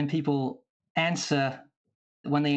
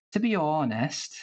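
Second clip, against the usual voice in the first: Welsh accent. Shown as a demonstration. Showing the panel an easy one, Welsh accent. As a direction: stretch the first syllable of "honest", Welsh style. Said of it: "elongating a particular syllable of a word".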